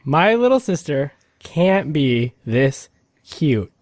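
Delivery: slow, measured recital; spaced-out deliberate delivery; deliberate title reading. Acted. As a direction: read the title out slowly, phrase by phrase.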